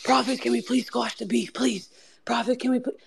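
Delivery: high, pleading mock voice. Guest retelling Jeremiah begging to squash the beef, high mocking imitation. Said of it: "doesn't have as much bass in it".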